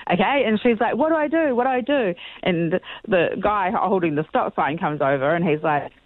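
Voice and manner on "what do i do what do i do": higher, panicky imitation of the friend; flustered panic. Imitating her panicking friend at the roadworks, higher and flustered. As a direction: squeak it out like someone losing their nerve at the wheel. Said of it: "she gets all flustered".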